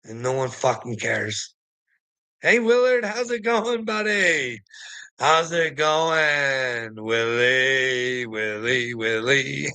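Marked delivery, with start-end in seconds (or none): 2.4-4.6 mock-friendly taunt. Real, not acted. Vlogger taunting the commenter Willard, mock friendly. 5.2-9.7 very slow, drawn-out teasing call; slow mocking taunt. Real, not acted. Vlogger drawing out a slow teasing taunt at Willie.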